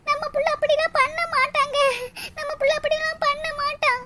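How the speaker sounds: mother's wailing protest; tearful pleading. Acted. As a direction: plead tearfully in your son's defence. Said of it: "இப்ப அழுது புலம்புனா".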